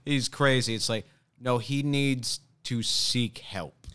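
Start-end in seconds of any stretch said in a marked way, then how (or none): 0.0-0.8 mock amusement. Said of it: "It's not like".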